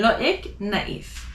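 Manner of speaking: loïc and naïf with the I as its own "ee"; French "lo-EEK", "na-EEF" for loïc, naïf; emphasized I. Shown as a demonstration. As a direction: sound the ï separately in loïc and naïf. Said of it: "pronounce the I more than the other letters".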